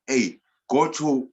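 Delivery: drawn-out mock hail to a friend; imitating a recommender. Speaker imitates a fan telling others about the talk, a slow loud call.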